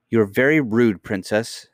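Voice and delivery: mildly indignant nurse's reproof; offended rebuke. Acted. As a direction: reprove the child with some force.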